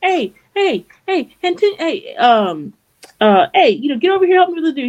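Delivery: high frantic mock calls for help; panicked calling. Swordsmith calling others over, high frantic mock panic. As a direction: call out high and frantic, half-joking.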